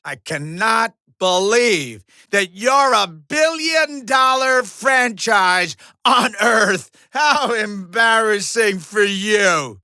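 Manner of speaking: loud, emphatic mockery; hammed-up incredulous taunt; scornful disbelief. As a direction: hammer out each word in disbelief. Mocks the fighter.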